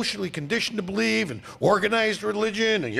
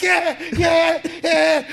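high, loud mocking yeahs; shouted mock agreement; mock yes-man; 10 semitones higher, 6 dB louder, much slower than usual. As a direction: parrot them like a gullible fan. Mocking gullible viewers.

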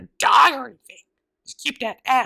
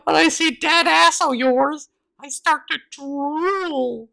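creepy flirt; 5 semitones higher, 3 dB louder, much slower than usual. Acted.

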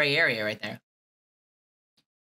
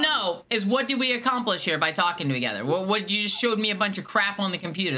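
raised, indignant questioning; annoyed demand; 6 semitones higher than usual. Acted. Caller scolding the scam technician, indignant and raised. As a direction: scold him for wasting your time.

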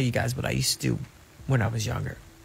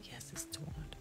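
pretending to be Tony; 2 semitones higher, 21 dB quieter than usual. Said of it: "I would pretend that I was Tony".

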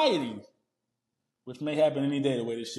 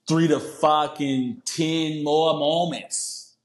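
put-on slow, drawn-out Boston accent; much slower than usual. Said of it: "My Boston accent shit".

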